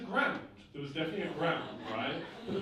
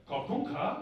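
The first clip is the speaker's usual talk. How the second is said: mock Asian-accented prayer line; imitated Asian accent; 3 semitones higher, slower than usual. Monk feeding the client the next line, imitated Asian accent. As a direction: mimic the monk's Asian accent, lightly. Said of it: "He's like".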